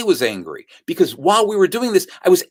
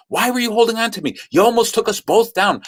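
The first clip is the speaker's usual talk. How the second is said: higher, quick mock scolding; mild mock yell, pitched up; retold yelling; 5 semitones higher than usual. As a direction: imitate an angry husband's accusation without shouting. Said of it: "and yelling at her".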